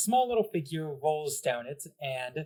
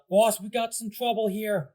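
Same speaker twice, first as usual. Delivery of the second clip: Koopa henchman; 7 semitones higher, 4 dB louder than usual. Acted. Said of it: "And he just goes".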